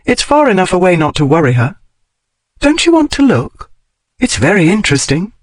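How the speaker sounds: Daphne's voice. Acted. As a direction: coax with lifted, lively pitch. Narrator voices Daphne coaxing.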